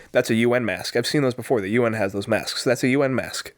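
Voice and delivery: lightly voiced low, monotone stranger; NPC-like meth head. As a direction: recite it like a game NPC, slightly low. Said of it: "He sounds like an N P C".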